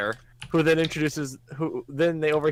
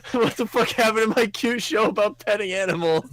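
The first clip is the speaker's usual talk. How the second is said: mock outrage; 8 semitones higher than usual. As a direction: act comically appalled at what became of the show. Jokey outrage at show's turn.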